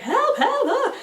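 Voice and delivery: high, loud yelp for help, through laughter; panicked calling out, half laughing; laughing mock scream. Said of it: "I was literally like".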